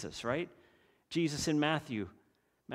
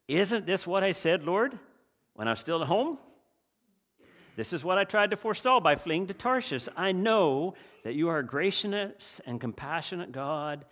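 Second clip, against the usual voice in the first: angry prayer. Acted. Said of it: "he prayed to the Lord".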